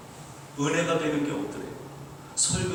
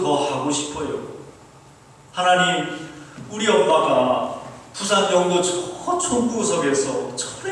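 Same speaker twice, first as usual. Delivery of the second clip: imitated Busan-accented plea, pitched up; Busan dialect prayer; 4 semitones higher, 4 dB louder than usual. Poor student begging God for help, Busan-accented pleading. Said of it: "자기가 부산 사투리로 기도했더니".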